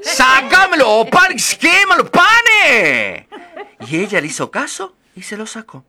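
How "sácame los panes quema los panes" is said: high, loud, slow, breaking into laughter; oven's laughing plea. Acted. Oven keeps begging the girl about burning bread, high and laughing. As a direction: wail it out as a giggling oven.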